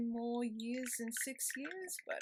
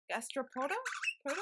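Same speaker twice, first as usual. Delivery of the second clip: "Gastropoda" higher, rising into a question; unsure pronunciation; 5 semitones higher, faster than usual. Real, not acted. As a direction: query "Gastropoda", then test "Poda" by itself. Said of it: "I don't know how to pronounce that".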